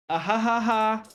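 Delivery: high, hammed-up fake laugh; forced laugh on demand. Shown as a demonstration. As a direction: laugh on cue, clearly put on. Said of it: "You need to laugh".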